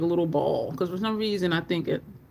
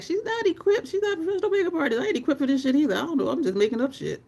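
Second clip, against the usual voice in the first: higher, quick mock of Grace, lightly done; mimicking Grace; 6 semitones higher, faster than usual. To the stream, playfully quoting Grace's teasing higher. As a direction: poke fun at her own skills in a friend's voice. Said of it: "Grace was like".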